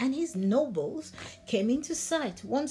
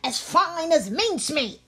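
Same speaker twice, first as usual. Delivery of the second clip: higher, quick and threatening, with meows; a cat bullying the mowers fast; fierce cat voice; 5 semitones higher than usual. Acted. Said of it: "in such a fierce voice".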